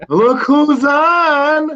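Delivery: mock excited.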